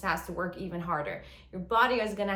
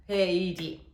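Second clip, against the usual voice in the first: quick gasp, cut phrase; 4 dB louder than usual. Shown as a demonstration. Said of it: "e i di".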